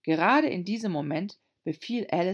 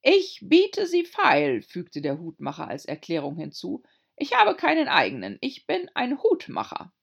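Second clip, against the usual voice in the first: timid little hatter; 7 dB louder than usual. A narrator's reading. Hatter explains.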